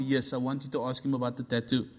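low, soft, matter-of-fact answer; patient, settled reply; calm insistence. Retold or imitated. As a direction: drop low and quiet, unbothered. God's calm answer, acted.

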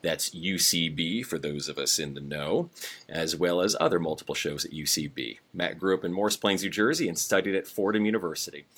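low, steady read-out introduction; bio read. Real, not acted. Host introducing the guest from notes, low bio read.

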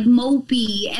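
slow mock whimper; hammed-up sad whine; mock mopey. Mocking mopey look.

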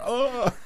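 high-pitched gasp for air; gasping laughter. Retold or imitated. Parent cracking up at the kids, gasping for air. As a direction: reenact gasping from laughing too hard. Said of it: "like, gasping for air".

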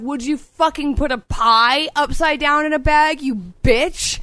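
high, indignant retold rant; mad. Customer fuming over her upside-down cupcakes, retold mad rant. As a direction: re-enact cursing out the cashier. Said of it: "I was just so mad".

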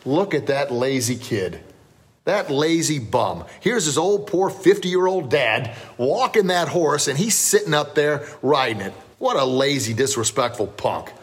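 scolding, drawn-out words with little real volume; mock yell. Passerby yells at a lazy kid riding, mock indignation. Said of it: "a person yells out".

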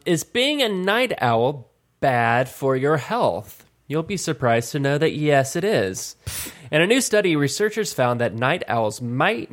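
measured, evenly paced news read; article read-aloud. Real, not acted. Host reads a health study to the others, measured read-aloud. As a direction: read it out like a short health report.

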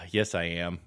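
low, soft sighed aside; resigned mom. Acted. Mom after a drag on her cigarette, resigned aside. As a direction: let out a smoker's exhale, then say it quietly. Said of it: "takes a drag off her cigarette".

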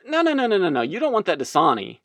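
high, hurried mock protest; pushy rival vendor. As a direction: cut in to talk the customer out of it. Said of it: "they're saying".

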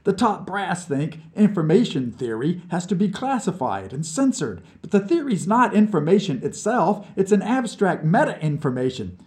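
put-on cheeky drunk from under the piano; mocking drunk. A narrator's reading. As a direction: poke fun at the crybaby. Vlad burbles on.

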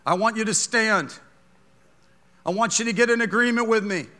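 ordinary delivery

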